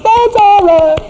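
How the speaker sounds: high mock voice of a soothing wife; imitating wife. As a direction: pitch it up like his wife calming him. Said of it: "Now, my wife".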